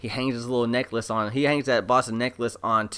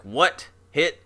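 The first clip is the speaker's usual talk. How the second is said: alarmed; 4 semitones higher than usual. Retold or imitated. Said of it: "he gets, like, worried".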